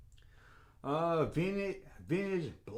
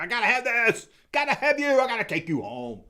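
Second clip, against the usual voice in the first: sudden squealing high excitement over a new toy; gotta have it; 10 semitones higher, 7 dB louder than usual. Retold or imitated. Collector spotting a new figure in the store, giddy and squealing. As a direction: grab it and shriek with glee.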